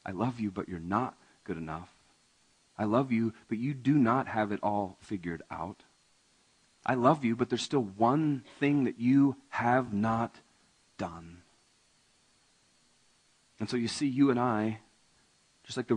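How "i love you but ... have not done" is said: love them while naming the gap; Jesus tenderly telling the rich man one thing remains; loving rebuke. Acted. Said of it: "Jesus says".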